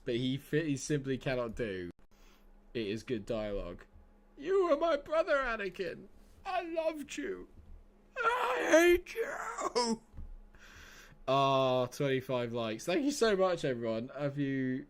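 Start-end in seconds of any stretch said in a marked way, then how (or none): 4.4-10.0 high, anguished, slow Obi-Wan; Obi-Wan impression. Streamer hamming up Obi-Wan's heartbreak. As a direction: wail it out like a betrayed brother. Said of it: "doing Star Wars impressions".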